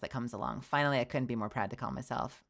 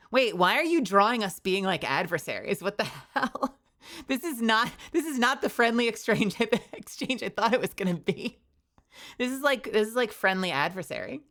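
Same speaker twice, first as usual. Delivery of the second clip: surprised; 7 semitones higher, 4 dB louder than usual. Real, not acted. Laughing surprise at art.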